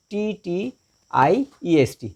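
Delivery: slow letter-by-letter dictation; spelling out. Shown as a demonstration. Teacher spells prettiest for the class, slowly letter by letter. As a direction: space out each letter.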